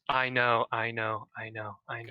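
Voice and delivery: echoing voice. Acted. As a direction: let each one fade out. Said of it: "everything she says echoes".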